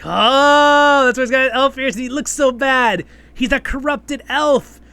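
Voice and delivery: loud, high "oh" of sudden understanding; excited realization. Retold or imitated. Reviewer reliving the moment she got the twist, excited and loud. Her own realization, retold.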